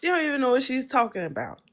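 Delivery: quick, careful stab at a Southern accent; attempted Southern accent. Shown as a demonstration. Australian copying the host's line, attempted Southern accent. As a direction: try on a Southern accent, not quite landing it. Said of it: "In, like, a Southern accent?".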